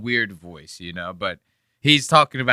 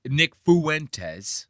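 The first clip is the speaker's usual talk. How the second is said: mock British pronunciation; 4 semitones higher than usual. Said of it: "Brits say they pronounce shit so crazy".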